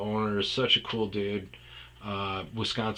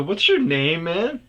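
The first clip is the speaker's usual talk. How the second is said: loud high question across the bar; calling out; 9 semitones higher, 9 dB louder than usual. Retold or imitated. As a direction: shout the question over.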